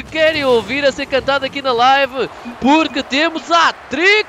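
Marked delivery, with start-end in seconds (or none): 2.6-4.3 excited shout. Real, not acted. Announcing hat-trick to chat.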